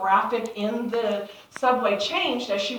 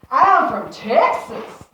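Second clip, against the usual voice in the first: proud declaration; 4 semitones higher, 11 dB louder, much slower than usual. Retold or imitated. Her proud answer to teasing boys.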